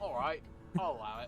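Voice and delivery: lordly villain granting permission; a touch of the haughty sheriff; Sheriff of Nottingham voice. Acted. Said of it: "That's my Sheriff of Nottingham voice".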